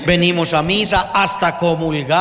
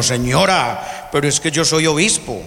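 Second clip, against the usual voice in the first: arrogant bishop. Retold or imitated. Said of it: "ese obispo era así muy prepotente".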